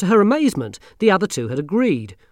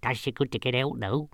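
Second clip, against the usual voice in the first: happy; 4 dB quieter than usual. Acted. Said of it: "said Nanny happily".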